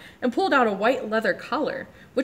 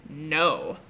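big rumbling voice; 5 semitones lower than usual. Acted. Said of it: "in his big rumbling voice he was saying".

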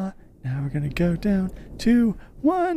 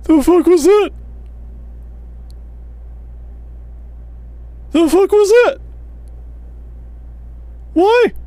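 startled shout; 8 semitones higher than usual. Real, not acted. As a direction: yell in sudden fright. Startled by a noise in game.

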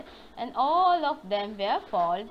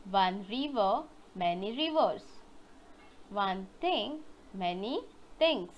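model drill for repeating; 3 semitones lower than usual. Shown as a demonstration. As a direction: spell it out for the kids to echo, pausing after each. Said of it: "Now repeat after me".

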